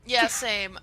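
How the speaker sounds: ordinary talk, nothing marked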